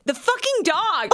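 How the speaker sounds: put-on swearing little kid. Mom quoting her son at gelato, childlike voice. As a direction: mimic a small child naming what he sees. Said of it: "and he's like".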